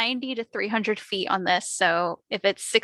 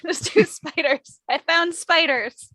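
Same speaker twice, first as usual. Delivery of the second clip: excited; 4 semitones higher, 3 dB louder than usual. Real, not acted. Excited then rueful about spiders.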